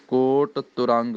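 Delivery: ਤੁਰੰਗ with a clear u after t, not ਤਰੰਗ. Shown as a demonstration. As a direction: sound the u in ਤੁਰੰਗ. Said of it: "ਔਂਕੜ ਤੋਂ ਬਿਨਾਂ ਤਰੰਗ ਨਾ ਬੋਲਿਆ ਜਾਵੇ".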